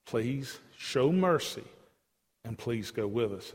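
slow, understated plea; earnest, restrained begging; pleading. Acted. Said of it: "Moses pleads".

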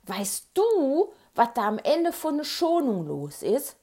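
eager, lifted phone question; bursting to share some news; excited question. A narrator's reading. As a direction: ask it with lively excitement. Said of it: "fragte ich Andi ganz aufgeregt".

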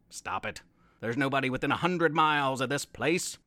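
low, growling pirate Pete; menacing pirate vow, low; gruff pirate voice. Acted.

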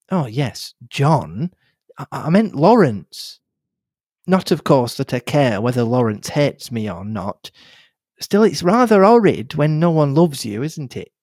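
put-on a chatty, bubbly young nurse; young girl Cynthia. Cynthia voiced.

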